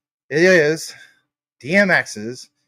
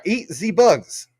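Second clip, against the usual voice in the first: slow, higher put-on voice; 6 semitones higher, 4 dB louder, much slower than usual. Shown as a demonstration. Streamer reads a viewer's name aloud in a slow put-on voice. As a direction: drag each word out in a silly voice. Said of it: "I'll say it in, in, uh, apparently your voice".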